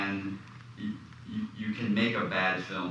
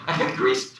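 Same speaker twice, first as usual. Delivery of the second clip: very high, squealed mock jubilation; mock excitement. Actor teasing co-star about her old answering-machine news, mock excited. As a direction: squeal it like a thrilled young actor. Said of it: "start jumping up and down going".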